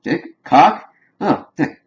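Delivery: imitating a confused man, voice jumping high; mock bafflement turning into realization; puzzled, then catching on. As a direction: act out puzzled questions, then a high "oh" as it clicks. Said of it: "seems to be confused".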